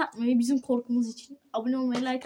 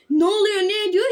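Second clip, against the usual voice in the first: imitating a guard; 5 semitones higher, 4 dB louder than usual. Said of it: "bir insan gelir de der ki".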